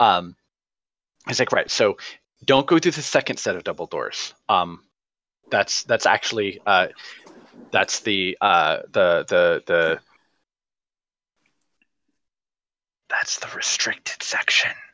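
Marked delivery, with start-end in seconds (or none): 1.5-14.7 whisper-style aside, fully voiced, stage whisper. Voicing a character giving directions to the dean's office: whispering quietly. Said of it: "He sort of whispers quietly".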